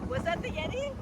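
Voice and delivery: excited. Real, not acted. On roller coaster.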